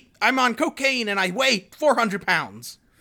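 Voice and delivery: peppy, bright, bouncing upbeat voice. Asked how Chris Farley sounds, doing a peppy upbeat Chris Farley impression. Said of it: "He's kind of just peppy and upbeat".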